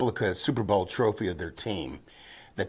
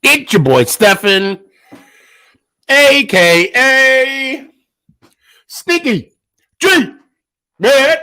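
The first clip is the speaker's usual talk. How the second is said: strained high shouts through spicy burn; mouth on fire; 13 semitones higher, 8 dB louder, slower than usual. Real, not acted. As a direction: push the intro through burning pain. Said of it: "Oh, my mouth is on fire right now".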